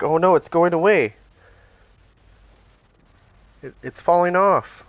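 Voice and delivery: high, loud mock alarm; imitating panicked kid. Father imitating his son alarmed in the bath, high and loud. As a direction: squeal it like a toddler in a panic. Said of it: "he's like".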